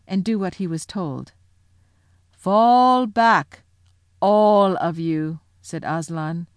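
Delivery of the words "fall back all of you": loud, drawn-out royal order; booming lion's command; commanding shout. Acted. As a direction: call out firmly to the whole crowd. Aslan orders everyone away.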